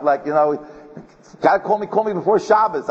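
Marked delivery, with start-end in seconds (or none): 1.4-2.9 higher-pitched, pressing imitation of a caller; retold urgency, pitched up; urgent caller. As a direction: mimic someone urgently chasing a callback. Urgent caller chasing him.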